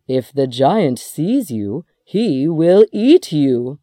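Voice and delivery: lightly voiced ominous warning; warning wife. A narrator's reading. Giant's wife warns of danger.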